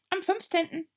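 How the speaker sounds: very high hare voice; squeaky March Hare. A narrator's reading.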